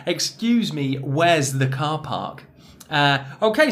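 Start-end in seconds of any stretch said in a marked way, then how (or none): 0.1-2.4 car park with a long ah, slow end; clear example. Shown as a demonstration. Teacher models the sentence again. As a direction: ask it clearly, stretching the ah. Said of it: "it's really that R sound".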